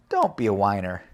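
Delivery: plain reading voice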